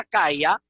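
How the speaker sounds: CALLA as CAI-a, two syllables; diphthong ay. Shown as a demonstration. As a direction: stress the first a of CALLA, gliding into i. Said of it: "habría un diptongo ay".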